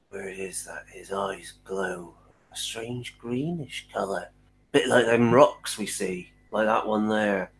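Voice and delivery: lightly voiced coachman, suspicious then hushed; a hint of a gossiping local; wary coachman. Coachman warns the priestess to mind her words.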